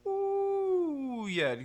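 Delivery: high curled-tongue ooh sliding down; high ooh, fry yeah. Shown as a demonstration.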